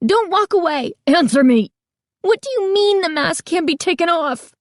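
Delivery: put-on girl shouting at the owner walking away; frantic yelling. A narrator's reading. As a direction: yell after him in a panic. Girl yelling after him.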